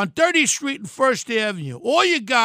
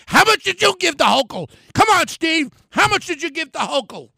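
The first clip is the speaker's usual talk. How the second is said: upset; 5 semitones higher than usual. Real, not acted. Confronting developer Steve Roth, heated angry demand. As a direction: press him hard, indignant. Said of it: "sorry for getting so upset".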